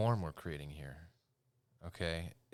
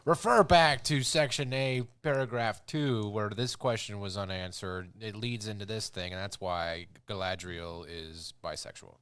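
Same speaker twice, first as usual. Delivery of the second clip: mock lawyer voice; 4 dB louder than usual. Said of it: "legal loophole where you can be like".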